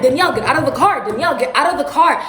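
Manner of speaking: fast urgent commands; quick panicked command; hurried repeat. Retold or imitated. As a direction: rush the order twice. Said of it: "I'm like".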